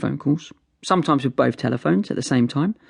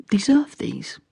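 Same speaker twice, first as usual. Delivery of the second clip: whisper; 7 semitones higher, slower than usual. Acted. Ironic aside about father.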